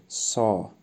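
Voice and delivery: سا said slowly as saw, no w glide. Shown as a demonstration. Teacher modelling سا slowly for students. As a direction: say سا, open o without w. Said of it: "و نه ساو".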